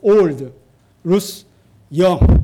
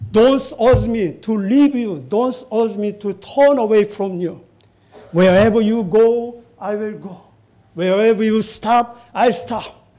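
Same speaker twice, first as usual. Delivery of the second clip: strong declaration; 2 semitones higher than usual. Retold or imitated. Ruth refuses to leave her mother-in-law, strong declaration. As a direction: firmly voice a pledge, mildly emphatic. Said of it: "she said very, very strongly".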